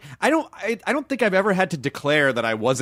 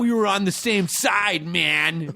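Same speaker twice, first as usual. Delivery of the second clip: betrayed fan; 3 semitones higher, slower than usual. Retold or imitated. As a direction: play a fan who feels let down. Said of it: "their audience would be like".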